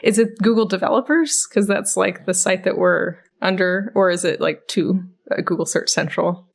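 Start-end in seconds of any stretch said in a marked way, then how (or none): none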